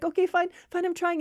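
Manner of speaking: high, harried giving-in; flustered friend. Acted. Friend with the phone gives in, flustered. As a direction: give in with mock fluster.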